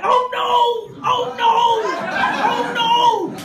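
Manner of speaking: high shouted oh no, hammed up; high mock wail of dismay; mock panicked shout. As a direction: yell it like parents in dismay. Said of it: "it's like".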